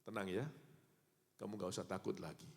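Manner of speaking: put-on calm a terrified child; soothing parent. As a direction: parent comforts a child chased by a dog. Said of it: "orang tuanya bilang begini".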